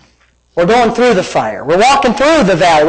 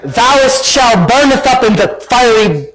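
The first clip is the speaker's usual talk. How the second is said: slow, grandiose scripture proclamation; mock King James; 3 semitones higher, slower than usual. Shown as a demonstration. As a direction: declaim it in stately old Bible style. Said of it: "I don't say it in King James".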